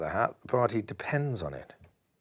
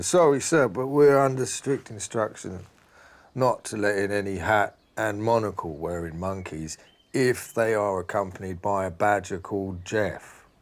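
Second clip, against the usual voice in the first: lightly voiced stern doorman. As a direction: play the doorman turning them away with mild firmness. Doorman refuses again.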